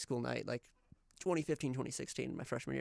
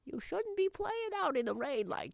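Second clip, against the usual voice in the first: high, drawn-out mock mother's scolding; mom voice; 12 semitones higher than usual. Shown as a demonstration. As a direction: nag like a caricature mom, pitched way up. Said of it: "just a good mom voice".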